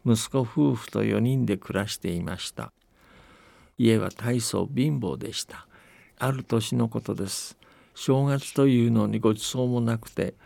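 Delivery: put-on steady, unhurried old-tale narration with light dialect voices for the villagers; folktale storytelling. A narrator's reading. Telling the host a New Year folktale from Akita, calm storytelling voice. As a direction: tell it like a grandparent spinning an old story.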